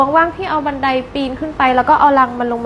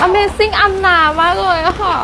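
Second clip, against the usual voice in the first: slow, higher mock amazement; sarcastic praise; 5 semitones higher, much slower than usual. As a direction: drag it out, fake impressed. (ชมแบบประชด ลากเสียงช้า)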